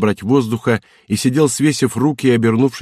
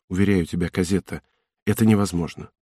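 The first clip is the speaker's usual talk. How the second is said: serious; 3 semitones lower, 4 dB quieter than usual. Acted. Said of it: "серьёзно сказал ей".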